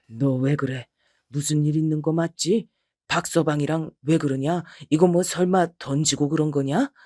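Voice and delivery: a father asking his daughter what happened; worried father. Acted. (낮은 목소리로 걱정하며 묻는 아버지)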